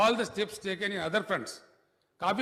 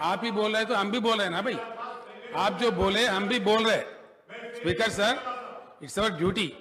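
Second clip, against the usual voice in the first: raised voice. Real, not acted. Minister hitting back at the heckling member, raised insistent voice. Heated exchange with the opposing member.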